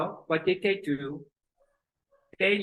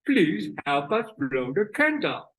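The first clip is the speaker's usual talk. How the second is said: twisted-mouth plea; parents pleading; 3 dB louder than usual. Acted. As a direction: act out a distorted-mouth request. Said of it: "And they said".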